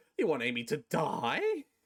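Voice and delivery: slight, constant voice cracking throughout. Imitating the tone a man talks in, with slight constant voice cracking. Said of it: "the slight constant voice cracking, like".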